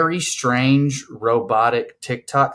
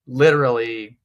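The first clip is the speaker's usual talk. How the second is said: put-on Valley girl. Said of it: "almost like the Valley thing".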